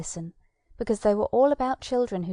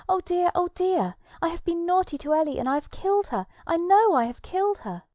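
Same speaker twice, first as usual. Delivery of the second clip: high, breathless, hurried despair; distraught; 8 semitones higher, 4 dB louder than usual. Acted. Tom confessing to the fairy, high distraught whisper. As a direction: rush it out, half whispered, terrified.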